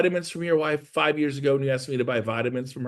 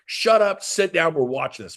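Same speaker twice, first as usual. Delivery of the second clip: mock bossy order; 3 semitones higher, 3 dB louder than usual. To a best friend who won't watch, mock bossy order. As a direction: boss your buddy into sitting down.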